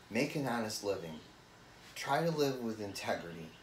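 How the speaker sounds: understated, measured dramatic delivery with falling phrases; dramatic monologue. Acted. Brother to Brian about the family's dirt, understated dramatic monologue. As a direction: lay out a hard truth with weary restraint, pausing between thoughts. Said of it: "Dramatic monologue from show on the road".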